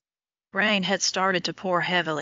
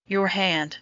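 awkward; slower than usual. A narrator's reading. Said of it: "she said awkwardly".

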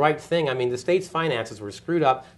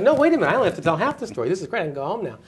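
high and fast, a sudden happy thought; excited realization; 5 semitones higher, faster than usual. Retold or imitated. Ex-reporter realizing he only tells half the story, excited and fast. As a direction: rush it out like a gleeful discovery. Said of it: "And I was like".

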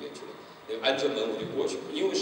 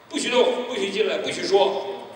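loud, higher commanding voice; stern orders; 7 semitones higher, 7 dB louder than usual. Retold or imitated. Consul ordering the Hong Kong police away, loud and commanding. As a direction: snap out each ban.

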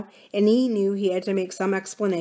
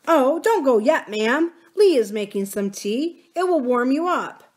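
higher and louder, keen to keep them; eager; 6 semitones higher, 4 dB louder than usual. A narrator's reading. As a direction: jump in to make the guests stay. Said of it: "Adam said eagerly".

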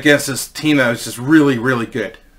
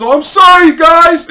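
high, loud mock yell; called-out apology; 14 semitones higher, 8 dB louder, slower than usual. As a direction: shout an apology to teammates, imitating the goalie. Injured goalie calling out from ambulance.

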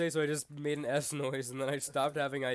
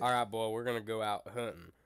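lightly voiced hunting dad; a hint of backwoods father; hunter figure; 3 semitones lower than usual. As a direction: play a country hunter addressing his boy. Acting a hunter talking to boy.

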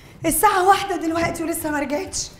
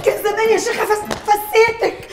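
laughing; 2 semitones lower than usual. Acted. Mistress laughing at maid.

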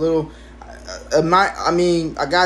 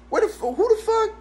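disgusted shriek. Retold or imitated. Retold outrage at the dismembered cricket.

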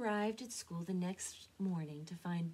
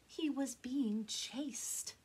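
arguing back; 5 semitones higher, much slower than usual. A narrator's reading. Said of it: "Mama argued back".

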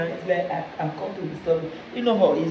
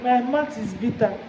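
crying. Real, not acted. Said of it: "Stop crying now".

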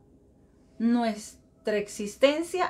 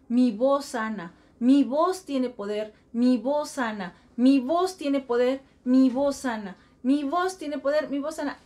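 reciting a mantra. Shown as a demonstration. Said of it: "todos los días empiézate a decir".

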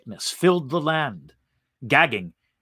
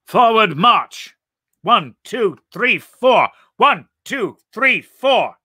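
high shouted march cadence; marching orders; 8 semitones higher, 6 dB louder, slower than usual. Acted. Leader marching invaders into town, shouted cadence. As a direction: bark out the count like a drill sergeant.

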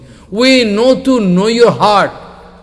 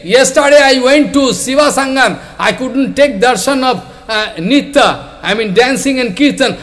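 angry complaint; 5 semitones higher than usual. Retold or imitated. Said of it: "some Brahmin become very angry".

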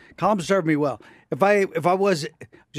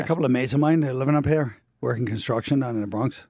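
put-on Irish accent; 3 semitones lower than usual. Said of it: "I'll speak in Colin".

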